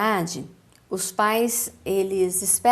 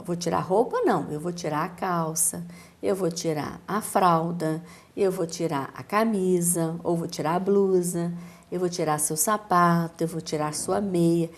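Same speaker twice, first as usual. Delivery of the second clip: put-on talking to a small child; 5 semitones lower than usual. Shown as a demonstration. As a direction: gently list each piece of clothing for a toddler. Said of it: "eu já dei uma série de palavras pra ela".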